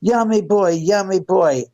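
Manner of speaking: high-pitched mock scream in Spanish; panicked mock yell of a scared laborer; retold scream. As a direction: pitch it way up like a terrified worker. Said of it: "and he screams".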